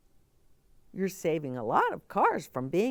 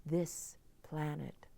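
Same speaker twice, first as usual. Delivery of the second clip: put-on young girl character; 2 semitones higher than usual. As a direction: play the worried little girl asking for help. Girl's closing pledge.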